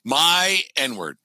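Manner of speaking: a hint of Jackie Chan's Chinese accent; mock Chinese accent. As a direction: quote it in a hammed-up Chinese accent. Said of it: "Jackie Chan in a heavy accent".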